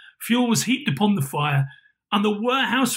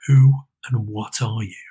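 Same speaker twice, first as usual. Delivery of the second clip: put-on lower, louder demanding old man; old Scrooge; 7 semitones lower, 4 dB louder than usual. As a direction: press the ghost for an answer. Scrooge questions the ghost.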